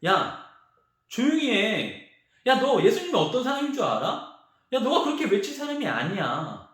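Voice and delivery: lightly acted telling-off, pitch lifted; mock scolding. Crowd rebukes the shouting blind beggar, mock scolding. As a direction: hush him with a mild rebuke. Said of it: "이렇게 꾸짖었어요".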